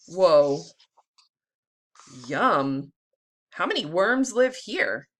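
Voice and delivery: put-on lively storybook read-aloud for kids; teacher reading a worm book to the class; reading to children. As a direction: read it like circle time, bright and clear. Teacher reads picture book aloud.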